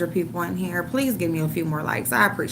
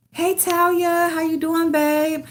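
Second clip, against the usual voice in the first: higher sing-song hellos to viewers; bright greetings; 9 semitones higher than usual. Real, not acted. Streamer greeting chat viewers by name, higher sing-song. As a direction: greet each fan like a friend walking in.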